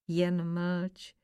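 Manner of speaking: softly spoken, with a light smile; quiet, indulgent hush to a complainer; smiling reply. A narrator's reading. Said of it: "povídá Pán Ježíš a usmál se". (tiše, s úsměvem)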